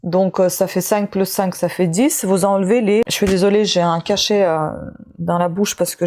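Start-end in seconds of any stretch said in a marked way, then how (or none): 0.0-3.0 talking with a pill in mouth; chewing while talking. Real, not acted. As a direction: speak around something in the mouth. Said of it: "c'est pour ça que vous m'entendez manger quelque chose".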